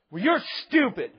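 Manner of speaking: mock sibling taunt.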